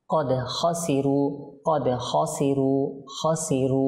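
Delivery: খাসিরু with a rough throaty kh; কদ খাসিরু with careful qaf and kha; clear kha. Shown as a demonstration. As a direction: scrape the kh in খাসিরু.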